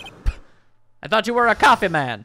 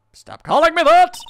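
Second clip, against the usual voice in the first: high, loud furious protest; angry shout; 11 semitones higher, 9 dB louder than usual. Acted. Mia shouting back at the man calling her kitten, angry. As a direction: yell it, fed up with the nickname.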